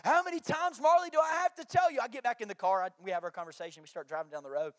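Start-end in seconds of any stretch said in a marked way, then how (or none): 0.0-2.0 exasperated dad. Retold or imitated. Dad scolding daughter by the roadside, hammed-up exasperation. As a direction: scold like patience is nearly gone. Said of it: "I'm trying to catch my cool".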